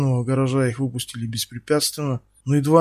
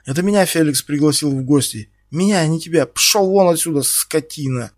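angry yelling; 3 semitones higher, 4 dB louder than usual. Acted. Ксюша гонит Стаса криком. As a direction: drive him out with a yell. Ksyusha keeps yelling at Stas.

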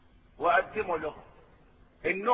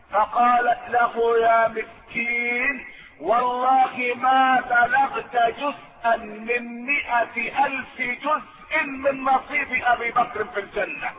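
slow solemn preaching; slower than usual. Acted.

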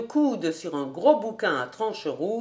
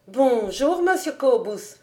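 higher-pitched, lightly voiced old servant; exclaimed greeting; 5 semitones higher, 5 dB louder than usual. A narrator's reading. Old servant hails the visitor from her kitchen, exclaiming. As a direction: call a greeting a little louder and higher. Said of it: "s'écria la bonne femme".

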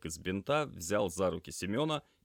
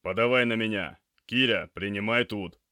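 loud, raised-pitch commands; called-out orders; 4 semitones higher, 8 dB louder than usual. Acted. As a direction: call to crewmates while heaving a load. Calling orders while moving stretcher.

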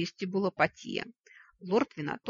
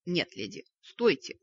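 startled plea; 3 dB louder than usual. Acted. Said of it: "встрепенулся волк".

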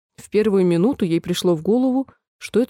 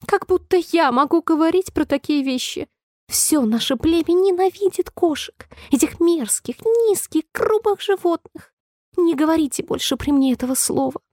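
much higher squeaky mouse voice, outraged; indignant mouse; 8 semitones higher than usual. A narrator's reading. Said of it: "возмущённо воскликнула мышь, дрожа". (возмущённая писклявая мышь)

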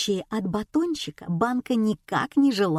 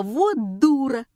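exclaiming; 5 semitones higher, slower than usual. A narrator's reading. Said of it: "и я воскликнула".

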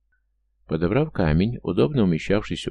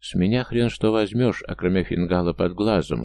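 put-on Cockney accent. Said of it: "старательно имитируя акцент кокни".

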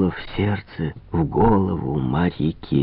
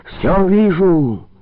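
high, loud, slow triumphant cry; shaman's shrill proclamation; piercing shout; 7 semitones higher, 3 dB louder, slower than usual. A narrator's reading. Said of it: "Громко, пронзительно крикнул шаман".

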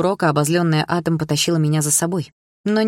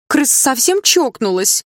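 much higher, louder slow mocking yell; jeering yell; 10 semitones higher, 5 dB louder, slower than usual. A narrator's reading. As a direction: join the jeering crowd. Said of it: "подхватили другие".

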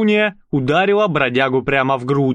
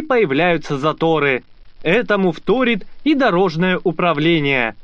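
raised, brisk reporter voice; news report read; 5 semitones higher than usual. Acted. Reporter presenting the paving dispute, news read.

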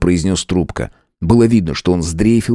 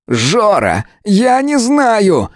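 much higher, slow tearful cry; sobbing; 13 semitones higher, much slower than usual. A narrator's reading. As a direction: near tears, desperate. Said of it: "всхлипнул напарник". (всхлипывая)

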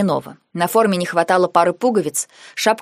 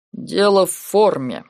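heavy sigh; slower than usual. A narrator's reading. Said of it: "с тяжёлым вздохом".

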